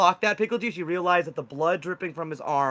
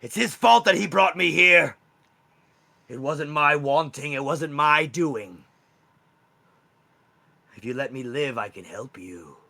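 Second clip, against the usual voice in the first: a cornered wendigo pleading with August to spare him; pleading monster; 6 dB louder, slower than usual. Acted. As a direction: beg for your life, voice climbing in panic. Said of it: "he's pleading for you".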